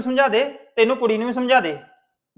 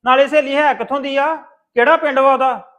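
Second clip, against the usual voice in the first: louder, stern scolding of a sister; angry scolding; 5 dB louder than usual. Acted. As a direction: tell her off, loud and hard. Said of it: "ਇੰਨੇ ਗੁੱਸੇ 'ਚ ਵੇਖਿਆ ਨਹੀਂ".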